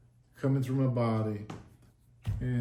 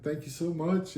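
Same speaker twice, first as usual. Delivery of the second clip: higher, a touch tearful; retold tearful thanks; 4 semitones higher, 4 dB quieter than usual. Man thanking Jesus as he cries, gently tearful. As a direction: lightly re-enact choked-up gratitude. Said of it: "You know, I'm crying".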